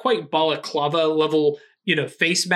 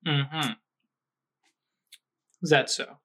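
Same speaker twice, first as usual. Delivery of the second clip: softer voice with a hint of a Mediterranean accent; slight Mediterranean accent; 4 dB quieter than usual. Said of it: "Mediterranean accent".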